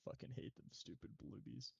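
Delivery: hushed unvoiced grumble; whispering. Real, not acted. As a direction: whisper it under your breath. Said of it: "Someone whispering?".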